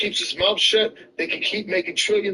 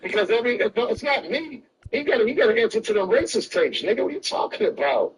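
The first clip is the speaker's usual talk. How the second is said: higher-pitched, agitated pushback; heated rebuttal; 4 semitones higher than usual. Real, not acted. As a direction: argue back insistently, voice pitched up.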